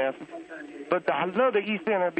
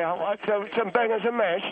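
slightly raised fake London accent; mock Cockney in the style of a singer; 3 semitones higher than usual. Old man previews his impression of a singer at church, mock Cockney. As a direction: put on a cheap Cockney for the church social. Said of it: "I'm gonna do an impression".

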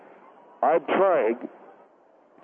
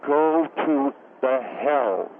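ominous; much slower than usual. Acted. Damning him to hell.

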